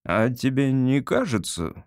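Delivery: slow, careful lead-in; cautious question. Acted. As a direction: tread carefully, as a father doubting his son. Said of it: "осторожно спросил папа".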